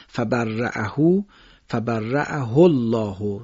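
فبرأه الله را بدون اشباع و آهسته بخوان; recited slowly, no lengthening. Shown as a demonstration. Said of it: "دیگه ما هو نمیخونیمش".

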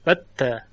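بته said with a plain t; colloquial t for th. Shown as a demonstration. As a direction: give the dialect form بته with t.

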